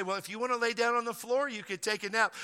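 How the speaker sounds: a light take on the easygoing teacher; imitating the teacher. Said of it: "the teacher would say".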